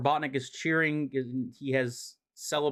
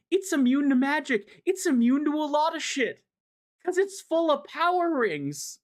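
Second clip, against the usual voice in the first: much higher, hammed-up villain voice; gloating Robotnik; 10 semitones higher than usual. Recapping the comic, Robotnik gloats in a high hammed-up voice. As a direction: crow about the trap like a cartoon mad scientist. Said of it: "And Robotnik's like".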